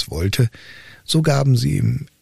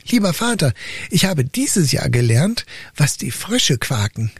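a hint of a timid boy, raised pitch; lightly voiced simple son; 5 semitones higher than usual. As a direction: answer like a dull, earnest youth. Son answers his father.

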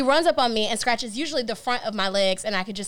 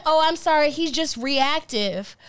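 dismissive neighbor; 4 semitones higher, slower than usual. Retold or imitated. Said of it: "She's like".

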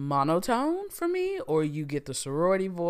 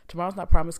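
loud telling-off tone; mock cussing out; 2 semitones higher, 11 dB louder, much faster than usual. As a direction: snap it out like cussing. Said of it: "cussing folks out today".

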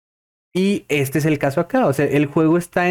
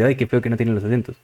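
quick, scornful "qué feo" from a picky player; mock disgusted complaint; 3 semitones lower, much faster than usual. A player scoffing at the game's missing accents, mock disgust. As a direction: rattle off a snooty gripe about the missing accents. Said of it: "efectivamente van a decir".

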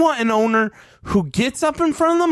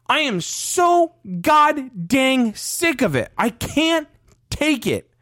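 slow, higher, fed-up outburst; sick and tired, dragging the words; exasperated; 5 semitones higher, slower than usual. Real, not acted. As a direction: let the frustration spill over. Fed-up fan rant.

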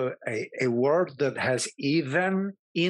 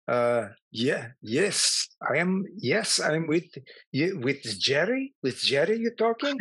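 put-on lightly done Eastern European accent, hesitant; playing the confused foreigner in a mild fake accent; Milos accent. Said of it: "I did talk Milos all week".

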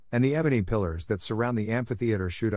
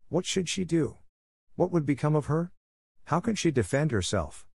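pitched up in alarm, each question rising in panic; 7 semitones higher than usual. A narrator's reading. Narrator voicing Night's panic, higher and alarmed. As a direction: ask as if danger is at the door.

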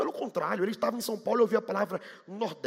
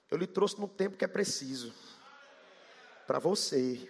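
1 voice of God; 6 semitones lower, 6 dB quieter than usual. Retold or imitated. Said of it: "Deus falou comigo assim".

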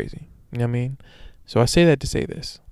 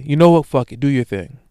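dismissive brush-off; 6 dB louder than usual. Retold or imitated. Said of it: "She dismisses him entirely".

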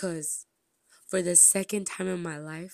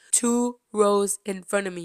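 louder, almost shouting it; loud disbelief; 4 semitones higher, 9 dB louder than usual. Real, not acted. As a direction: blurt it out in disbelief. Disbelief at seat placement.

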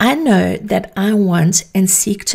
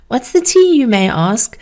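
sassy high drag queen "tea"; campy drag queen; 3 semitones higher than usual. Acted. Drag queen speak, after naming it.

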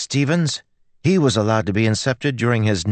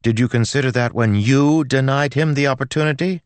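high, loud belligerent challenge; 13 semitones higher, 5 dB louder than usual. A narrator's reading. Girl takes the priest to task in church, belligerent. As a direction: hurl accusing questions. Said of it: "as she grew belligerent".

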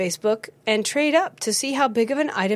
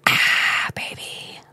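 breathy unvoiced sigh of satisfaction; enthusiastic Ah baby; much slower than usual. Shown as a demonstration. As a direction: sigh it out after a sip. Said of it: "with an enthusiastic".

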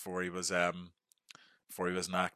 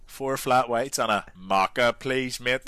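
slow, higher, louder mock order; mocking imitation; 4 semitones higher, 6 dB louder, slower than usual. Radio colleagues mimicking his coffee order, slow and teasing. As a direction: lay on his own order as the lads mock it. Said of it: "takes the piss out of me on the radio".

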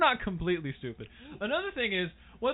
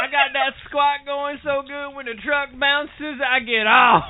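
louder, higher hick bragging; loud redneck boast; 5 semitones higher, 7 dB louder than usual. Pretend. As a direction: brag like a truck-proud redneck. Redneck character bit.

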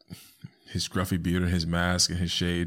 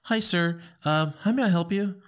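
high, sweet customer-service greeting; polite teller voice; 11 semitones higher than usual. Pretend. Host plays himself as a bank teller greeting a customer, high chirpy voice. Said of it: "if I'm a bank teller".

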